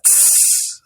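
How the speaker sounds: short hiss; snake hiss. Shown as a demonstration. Teacher imitating a snake for the class, short hiss. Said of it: "A hiss is a high pitch".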